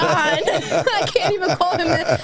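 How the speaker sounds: high, slow, tearful-happy laughter; overwhelmed with emotion. Real, not acted. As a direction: gush slowly, laughing through happy tears. Overwhelmed thanks to gift giver.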